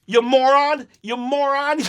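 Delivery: gleeful mock taunt. Quoting the taunt with glee.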